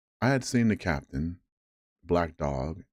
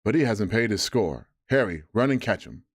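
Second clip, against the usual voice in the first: cried Silver; 2 semitones higher than usual. Acted. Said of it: "cried Silver".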